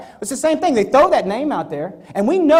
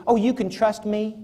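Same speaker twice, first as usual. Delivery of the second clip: mocking slick reassurance; 4 dB quieter than usual. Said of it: "somebody said".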